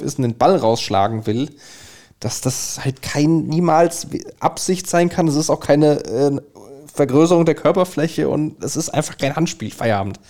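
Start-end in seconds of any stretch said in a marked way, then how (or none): 2.2-10.2 higher-pitched exasperated insistence; worked up. Real, not acted. Fan arguing that the handball was no offence, exasperated. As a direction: argue it heatedly, getting worked up. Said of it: "ich krieg grad schon wieder Puls".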